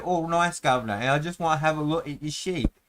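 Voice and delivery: put-on Cockney accent. Elf sweet-talking a farmer for sheep, mild Cockney accent. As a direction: ham up a cheeky Cockney elf. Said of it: "the elves have a Cockney accent".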